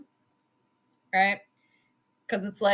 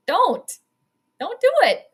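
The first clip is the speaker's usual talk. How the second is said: higher, louder plea not to go for it; pleading shout; 7 semitones higher, 5 dB louder than usual. Real, not acted. Fan yelling at the screen, high pleading no. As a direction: beg the team out loud.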